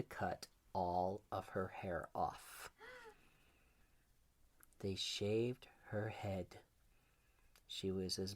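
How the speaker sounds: slow, hushed whisper. A narrator's reading. Storyteller to child, slow whisper. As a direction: breathe it as a grim secret. Grim twist told softly.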